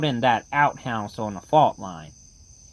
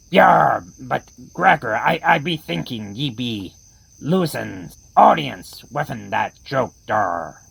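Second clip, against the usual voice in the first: put-on pirate accent; 4 semitones lower than usual. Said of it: "the ones with the terrible accents".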